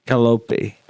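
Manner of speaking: "Calliope" said kuh-LOPE-ee, stressed in the middle; "Calliope" with LOPE then a final ee. Shown as a demonstration. Offers an alternative pronunciation.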